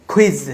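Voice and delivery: "কুইজ" with a puffed kh onset; aspirated q. Shown as a demonstration. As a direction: say "কুইজ" as khwiz. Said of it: "উচ্চারণ করবো খ্যা". ("কুইজ" শুরুতে খ উচ্চারণ)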